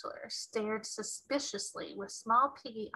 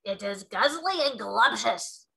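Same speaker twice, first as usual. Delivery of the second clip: giant shout; 4 semitones higher, 3 dB louder than usual. Acted. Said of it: "shouted the Bloodbottler".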